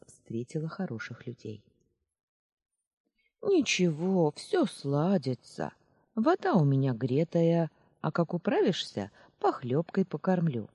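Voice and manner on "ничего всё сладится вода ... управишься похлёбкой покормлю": good-natured mumble. Acted. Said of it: "добродушно бормотала старушка".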